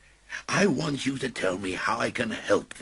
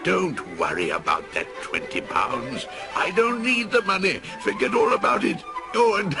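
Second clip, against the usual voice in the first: put-on high, louder happy old man; jolly forgiveness; 8 semitones higher, 3 dB louder than usual. Scrooge tells a debtor to forget it, jolly. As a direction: give it all away gladly.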